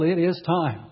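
preacher's urgent call to repent; slow, emphatic prophet's summons. Retold or imitated. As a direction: call it out firmly, stretching the words. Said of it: "He's calling for people".

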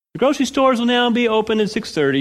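lightly voiced official proclamation; mock decree. Preacher mocking a decree on local store hours, mock announcement. Voicing an imagined trivial decree.

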